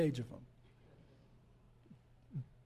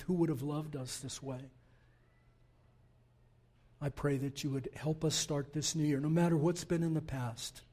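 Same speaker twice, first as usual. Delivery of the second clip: prayer. Acted. Closing prayer.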